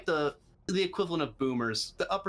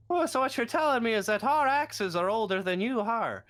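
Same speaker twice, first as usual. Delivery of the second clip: gruff dwarf; 10 semitones higher, 3 dB louder than usual. Acted. Dwarf NPC reacts.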